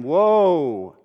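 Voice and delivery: loud, high, stretched mock lament; crying out woe. Preacher imitating weeping mourners, loud lamenting cry.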